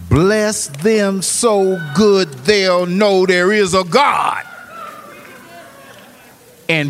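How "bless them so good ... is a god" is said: preaching shout. Real, not acted. Climax of sermon.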